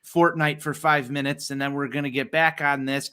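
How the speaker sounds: flat, even broadcaster read; deadpan it like a bored TV announcer; monotone announcer. Retold or imitated. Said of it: "like, monotone".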